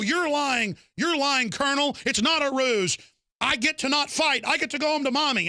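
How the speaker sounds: high, pleading soldier voice; panicked soldier. Retold or imitated. Soldier pleading with his colonel to go home, high and whiny. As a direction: whine it like a scared soldier.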